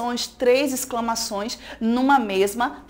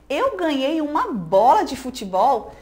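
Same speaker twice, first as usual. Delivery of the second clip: mock disbelief, read out a little louder; surprised question; 2 semitones higher, 3 dB louder than usual. Teacher reading Mônica's puzzled line to the class, in mild surprised disbelief. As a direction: lightly act out surprise and doubt at once. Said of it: "Interrogação e exclamação de novo".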